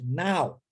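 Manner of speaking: NOW as a clear falling "nau"; pronunciation of NOW. Shown as a demonstration. Teacher repeating the word for this exact moment, model pronunciation of NOW. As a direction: model NOW alone, ending low. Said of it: "pronunciado now".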